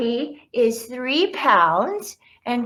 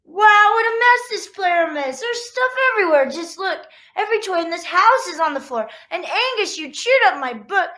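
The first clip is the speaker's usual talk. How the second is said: higher, louder scolding mom; exasperated mom; 7 semitones higher, 4 dB louder, faster than usual. Acted. Mom finding toys everywhere, higher exasperated scolding. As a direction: sound like a mom finding a huge mess.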